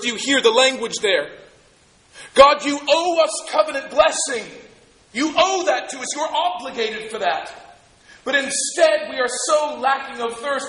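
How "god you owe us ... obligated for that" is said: entitled grumbling people. Acted. Voicing the grumbling Israelites.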